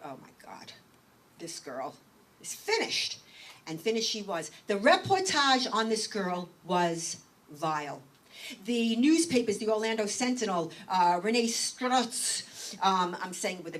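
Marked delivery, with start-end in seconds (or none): 0.0-3.2 hushed whisper of dread; whispered thought. Retold or imitated. Speaker recalling her private thought, whispered. 11.2-12.4 Renee Strutz said the Italian way, rolled and slow; Italian accent. Shown as a demonstration. Speaker pointedly saying a reporter's name with an Italian accent. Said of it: "deliberately an Italian accent there".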